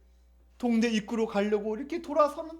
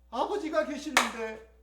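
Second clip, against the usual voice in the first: soft, slow, wistful realisation; wistful recollection; 8 dB quieter than usual. Acted. Starving prodigal remembers he has a father, quietly wistful. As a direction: remember your father, softly and slowly.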